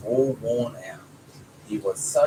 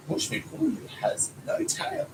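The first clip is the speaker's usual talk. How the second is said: much higher, playful announcing. A narrator's reading. Dad telling the child a funny fact, high and playful. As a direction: lift the voice high for fun. Reading creature description.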